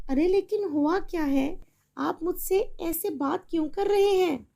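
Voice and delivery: making shopping plans with a friend; chatty mother on the phone. Acted. Mother confused.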